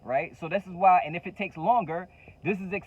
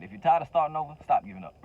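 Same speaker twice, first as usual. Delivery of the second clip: put-on ATL accent; faster than usual. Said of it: "He said in his A T L accent".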